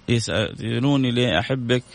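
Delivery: reciting a love poem to a mother, unhurried; tender poem recitation; reading a poem. Acted. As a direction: read it out like a heartfelt verse. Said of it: "هي مرسلتها إلى والدتها".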